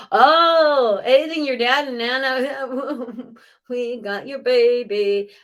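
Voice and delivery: high, laughing and breathy; joyful laugh through the words; laughing delight. Real, not acted. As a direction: giggle as you pass it on. Laughing as she relays the dad.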